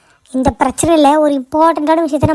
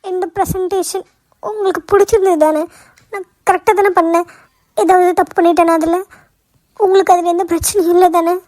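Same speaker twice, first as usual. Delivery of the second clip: higher-pitched, tearful pleading; 4 semitones higher than usual. Acted. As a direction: seek reassurance while still upset from crying. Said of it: "ஏன் அழுதுட்டு இருக்க".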